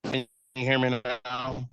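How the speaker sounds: muffled bad phone line; words bubbling through water; underwater. Real, not acted. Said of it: "you sound like you're underwater".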